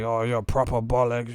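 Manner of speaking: hammed-up English accent; mock British girl. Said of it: "They're like".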